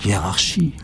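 chuchoté, mystérieux; formule chuchotée. Acted. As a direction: murmure la formule magique. Whispered spell. (la sorcière chuchote la formule)

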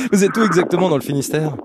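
asked through a laugh; laughing question. Real, not acted. Host teasing the caller, laughing. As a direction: let the laugh carry the question. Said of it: "laugh heard while asking".

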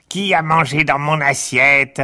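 high whiny grumbling; a petulant little complainer. Acted. February whines about plate.

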